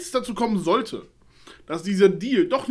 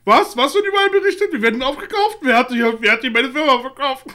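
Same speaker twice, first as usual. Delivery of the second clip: shocked disbelief; 3 semitones higher, 6 dB louder than usual. Retold or imitated. Imitates Kojima shocked by rumour.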